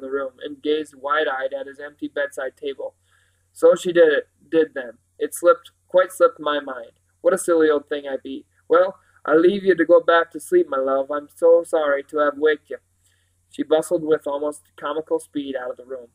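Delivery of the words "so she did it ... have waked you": a hint of homely country housekeeper; lightly rustic, self-chiding housekeeper; lightly voiced Mrs Park, apologetic. Housekeeper apologises to the boy for waking him, lightly rustic.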